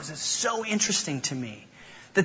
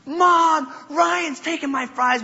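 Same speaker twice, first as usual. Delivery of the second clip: tattling little sister; 10 semitones higher, slower than usual. Retold or imitated. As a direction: imitate a kid calling on mom to tell on a brother. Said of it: "would call on my mom".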